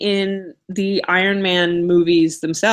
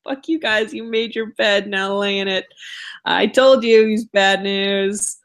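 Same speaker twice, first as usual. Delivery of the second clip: Namor; 3 semitones higher than usual. Retold or imitated. Acts out Namor leaving smugly.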